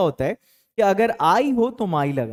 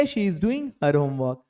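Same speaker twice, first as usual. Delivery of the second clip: slow model sentence; 3 semitones lower, 4 dB quieter, much slower than usual. Shown as a demonstration. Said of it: "कोई लड़की है".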